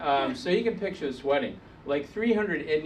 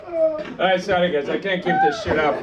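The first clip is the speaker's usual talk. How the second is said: put-on Australian accent. Comic confessing to the crowd, put-on Australian accent. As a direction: fake Aussie accent being abandoned. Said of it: "I don't talk like that".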